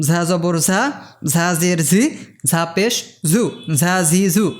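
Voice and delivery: "ঝা, ঝি, ঝু" with the Z of "zoo", pushed harder; pushed Z sound. Shown as a demonstration. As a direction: say each "ঝ" as a forceful buzzing z. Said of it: "জু শব্দের জেডের মতোই এর উচ্চারণ অনেকটা". ("ঝা, ঝি, ঝু", জু-র জেডে একটু ধাক্কা দিয়ে)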